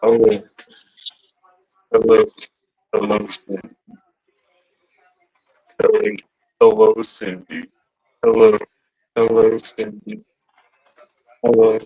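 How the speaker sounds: low voice-changer greeting; Ghostface voice. Pretend. Showing Randy the ghost face toy, ghost face voice. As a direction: repeat the killer's greeting through a voice changer. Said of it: "has the ghost face voice".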